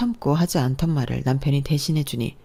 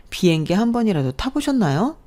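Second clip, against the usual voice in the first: higher, sneering question; mocking sneer; 6 semitones higher than usual. Sister-in-law taunting mother-in-law about flying, mocking. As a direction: needle the old woman with fake sweetness.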